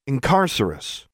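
"Incarcerus" slowly, with falling stress on the second syllable. A narrator's reading. Girl correcting a spell, "Incarcerus" with falling second-syllable stress. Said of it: "with falling stress on the second syllable".

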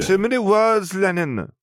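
put-on a small girl fed up with the chatter; little girl voice. A narrator's reading. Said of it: "Letty said".

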